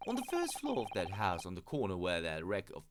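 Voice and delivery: police inspector character. Acted. Inspector directing visitors to the lodgings, in character voice. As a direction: point out the lodgings as a chatty inspector.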